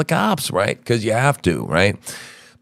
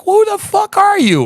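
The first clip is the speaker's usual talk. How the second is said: mock incredulous. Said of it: "And I'm like".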